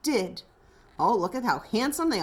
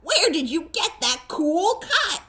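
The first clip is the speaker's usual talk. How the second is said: bright laughing question, pitched higher; excited, laughing; 5 semitones higher than usual. Acted. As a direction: gush over the haircut with a laugh. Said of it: "they excitedly exclaimed".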